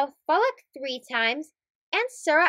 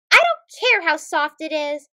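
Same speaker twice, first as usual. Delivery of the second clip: put-on child's protest; 4 dB louder than usual. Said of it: "cries Hamza".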